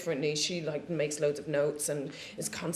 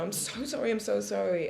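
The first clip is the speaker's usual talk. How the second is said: higher voice, lightly pleading; imitated frantic apology; 3 semitones higher than usual. Sweating crew member apologising to the actress, higher pleading voice.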